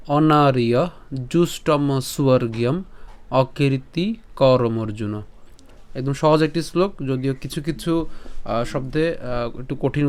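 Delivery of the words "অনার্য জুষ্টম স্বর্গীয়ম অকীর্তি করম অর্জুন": slow, measured chant of the Sanskrit verse; verse recitation. Shown as a demonstration. Teacher chanting the Gita verse to viewers, slow and measured. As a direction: recite each word slowly and deliberately.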